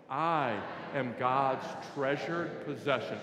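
slow, measured declaration, every word spaced; slow group recitation. Shown as a demonstration. Preacher leading the congregation's first repetition, slow recitation. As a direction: lead the room word by word. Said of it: "We're gonna say it three times".

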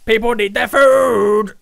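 high, loud and slow, frantic; loud fretting panic; stressed panic. Real, not acted. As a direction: sound swamped by orders. Panicking over burger backlog.

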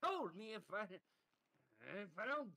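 anguished shout. Acted. Hostage taker erupts.

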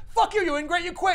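high, loud hammed-up rant; mock angry boss. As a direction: bark at the ungrateful employee. Jameson yelling at Peter.

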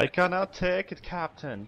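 unconvincing attempt at a Scottish accent; failed Scottish accent. Shown as a demonstration. Teammate repeats the captain line on request, poor Scottish accent. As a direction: try Scottish, barely getting there. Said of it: "There was no way that was a Scottish accent".

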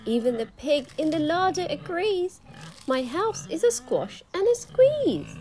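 put-on high, loud frantic old lady; crying old lady. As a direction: shriek like a desperate old lady. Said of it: "The little old lady cried".

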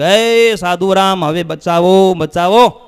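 loud, drawn-out appeal for rescue; pleading prayer. Acted. Villagers outside begging the monks for help, loud acted plea. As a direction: call out and beg, as a crowd would. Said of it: "ઊભા રહીને પ્રાર્થના કરી".

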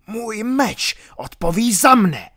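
villain answering the friar with a threat; defiant villain. Acted. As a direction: let the sword talk.

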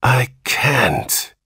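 high, weak, despairing moan.

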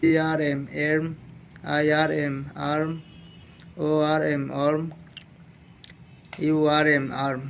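measured, drawn-out classroom drilling; slow phonics drill. Shown as a demonstration. Teacher reading sounds slowly for students to follow. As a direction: spell each letter, then say the word deliberately. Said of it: "এটা ধীরে ধীরে পড়াচ্ছি।".

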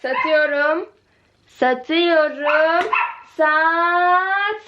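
slow drawn-out sale countdown; auctioneer call. Pretend. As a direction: stretch the going-going call.

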